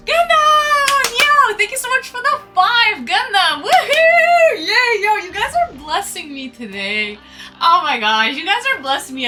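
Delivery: high, loud, squealing thanks; cute anime streamer. Real, not acted. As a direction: shriek with giddy delight. Thanking for five subs.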